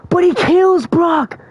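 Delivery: high, stretched-out cry of disbelief; aghast outburst. Retold or imitated. Fan revealing a favourite's death, aghast outburst. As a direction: blurt it high, dragging the words.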